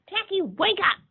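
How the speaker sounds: frantic high shout; repeated cry. Acted. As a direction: yell it again desperately. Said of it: "they repeated".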